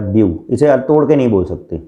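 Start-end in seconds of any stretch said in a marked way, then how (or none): 0.0-0.4 व्यू said in a single beat; व्यू as one joined syllable. Shown as a demonstration. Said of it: "एक बार में बोलेंगे".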